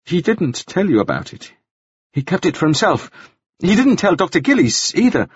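put-on high, hesitant, stammering young man's voice; a flustered man spilling a secret; nervous Nielsen. A narrator's reading. Nielsen confessing the blackmail to the jailer, high and stammering.

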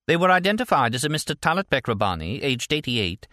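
female news anchor. A narrator's reading. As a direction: deliver a breaking update like a TV anchor. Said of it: "The female anchor chimed in".

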